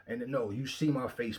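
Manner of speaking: ordinary talk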